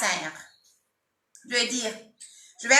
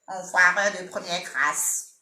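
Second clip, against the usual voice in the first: slow, lower mock Mike insult; lightly voiced host catchphrase; imitating Mike's catchphrase; 4 semitones lower, 3 dB quieter, slower than usual. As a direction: drag the words out like the prank-show host. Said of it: "je veux juste imiter".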